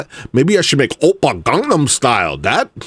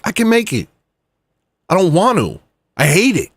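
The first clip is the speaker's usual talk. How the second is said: indignant rant; 5 semitones higher than usual. Real, not acted. Indignant rant about music.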